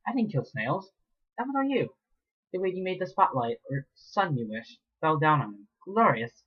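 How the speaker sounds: high, relishing villain voice; gloating villain. Acted. Mayor gloats over the filly, high and relishing. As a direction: savour every word of the blame. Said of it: "grinning and soft right over".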